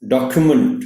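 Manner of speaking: डॉक्यूमेंट with a clear क्यू sound; correct document. Shown as a demonstration. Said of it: "C यू क्यू sound बोलनी है".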